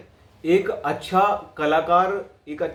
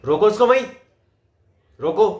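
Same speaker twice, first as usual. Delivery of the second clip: louder, higher plea to stop someone; urgent calling out; 4 semitones higher, 5 dB louder, faster than usual. Shown as a demonstration. Coach acts telling a brother to stop him, urgent call. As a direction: call out sharply for help stopping him.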